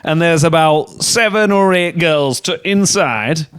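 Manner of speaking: hammed-up doubtful German doorkeeper; mock German accent. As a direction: turn someone away in a put-on German accent. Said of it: "Obviously, all in a German accent".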